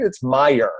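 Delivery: "Meijer" said MY-er, without an S; no final S. Shown as a demonstration. Coach correcting older relatives, "Meijer" without final S. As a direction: end "Meijer" cleanly on the r. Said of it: "There's no S on the end of that".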